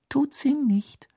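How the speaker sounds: slow, breath-only whisper. A narrator's reading. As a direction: whisper the contradiction gently. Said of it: "flüsterte Ginny".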